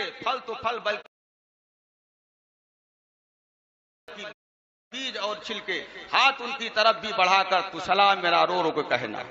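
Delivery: tuneful verse recital, lightly mocking; reciting a rival's verses to make fun of them; mock poem recitation. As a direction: chant the couplets with a half-hidden smile. Recites mocked salaam verses.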